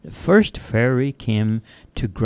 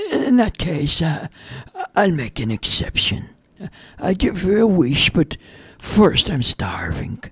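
high, hesitant fairy voice; captured fairy bargaining, halting and anxious; worried fairy; 7 semitones higher than usual. Acted. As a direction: backtrack nervously in a raised little voice. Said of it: "The fairy looked very worried".

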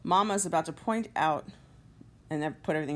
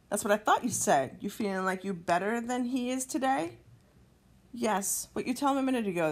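raised pitch, indignant challenge; angry Mama; 4 semitones higher than usual. Acted. Angry Mama confronting her daughter for writing off her brother. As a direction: scold with rising, incredulous questions. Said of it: "Mama's gonna get angry".

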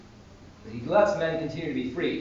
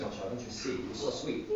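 soft, hushed gentle reproach; gentle pleading; 4 semitones lower, 12 dB quieter than usual. Retold or imitated. Saint pleading with the nun for the bear, gently. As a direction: plead softly, sinking to a near whisper.

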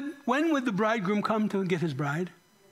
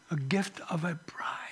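whisper; 4 semitones lower, 5 dB quieter than usual. Real, not acted. Preacher drops voice at phrase end.

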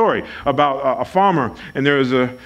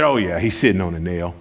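casual farmer; 12 semitones lower, 3 dB quieter than usual. Retold or imitated. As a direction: shrug it off like it's nothing. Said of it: "He said".

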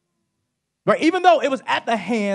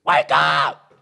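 screaming; 4 semitones lower, 6 dB louder, much slower than usual. Acted. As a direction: scream it to wake the sleepers. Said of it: "here is Jesus screaming".

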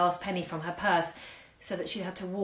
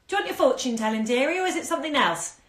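put-on old crone; 7 semitones higher, 5 dB louder, faster than usual. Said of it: "speak in a croaking whisper".

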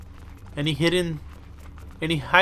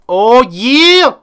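much higher, loud triumphant shout; excited cheer; 13 semitones higher, 10 dB louder, much slower than usual. Real, not acted. Gamer celebrating a completed quest, shouting with joy. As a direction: yell it out like you just won. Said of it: "I'm a little too excited".

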